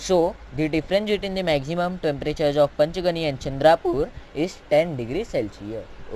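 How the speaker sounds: slow, careful read-out of the answer; teacher spelling out the answer at dictation pace; slow dictated answer. Acted. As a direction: dictate each word slowly to a student. Reads the answer out slowly.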